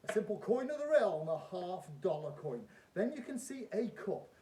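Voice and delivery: loud, high showman patter; kids party magician. Acted. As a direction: play it big for the crowd. Performs trick as stage magician.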